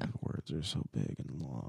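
low, soft mock whine. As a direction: whine it like a defeated kid. Complaining about hard book.

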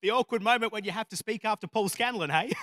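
retold nervous joke with an awkward laugh after; nervous mock-jokey remark. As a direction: toss out a bad joke, then laugh it off. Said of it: "I'm trying to laugh it off".

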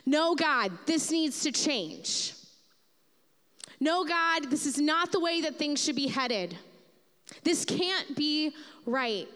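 praying in protest to God, insistent; contending prayer. Shown as a demonstration. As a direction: push back on God firmly. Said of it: "There are times to say".

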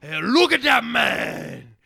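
high, loud, drawn-out mock vaguely Asian accent; hammed-up vaguely Asian accent, shouted slowly. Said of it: "I do this vaguely Asian accent".

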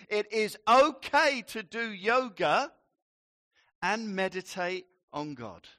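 pastor's emphatic reassurance; emphatic declaration. Real, not acted. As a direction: proclaim it boldly to the congregation.

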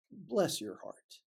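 slow, soft pitying bless your heart. Shown as a demonstration. Preacher to listeners out of line, pitying and slow. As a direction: let it land gently as a dig. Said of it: "But you know what?".

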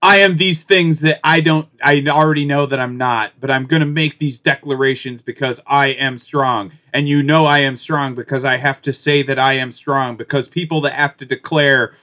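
a slow, lightly robotic imitation of a proud speaker; mock her stiff flat-ended declarations; lightly hammed-up robotic imitation. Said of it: "the most fucking robotic, uh, tone".

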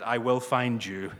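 playful mock menace, half-laughing; a hint of a grim action-hero threat; Liam Neeson accent. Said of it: "I put on my Liam Neeson accent".

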